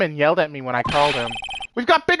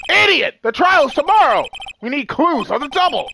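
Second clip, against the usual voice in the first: angry yelling; 9 semitones higher, 5 dB louder than usual. Acted. Detective yells at recruit.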